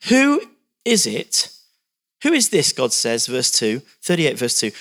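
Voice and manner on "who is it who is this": God's booming challenge. Acted. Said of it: "You get questions from God".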